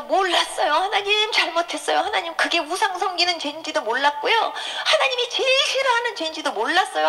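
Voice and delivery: re-enacted tearful confession, rising high; imploring retold cry; repentant pleading. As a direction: beg God to forgive, voice climbing. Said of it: "하나님 앞에 막 회개했어요".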